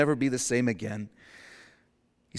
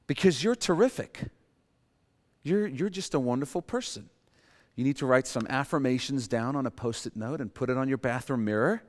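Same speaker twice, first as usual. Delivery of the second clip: mocking self-help voice. Preacher mocking society's self-help advice, hammed-up cheer. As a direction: parody pep talk. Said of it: "Our society says".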